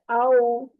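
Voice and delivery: आओ as a soft "aw-oo" glide with rounded end. Shown as a demonstration. Teacher showing a soft letter to students, gentle glide. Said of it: "नरमी से अदा करते हैं".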